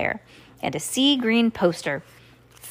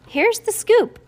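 Here's the Scoop sung up high; high sing-song note; 13 semitones higher, 4 dB louder, slower than usual. A narrator's reading. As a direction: lift it high and playful. Secret admirer note read.

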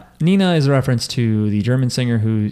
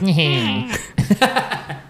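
high nasal "nyeh" squeal; mimicked squeak of a tiny creature; mock little creature whine; imitated little noise; 5 semitones higher than usual. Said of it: "it made a little noise".

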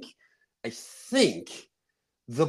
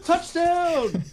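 giddy fan; slower than usual. Retold or imitated. Answering his wife, laughing and cheering high. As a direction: gush with a laugh over the play. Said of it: "And I'm like".

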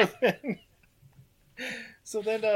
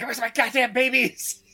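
loud, high comic yell; imitating an irate gunman; mock angry demand; 6 semitones higher, 7 dB louder than usual.

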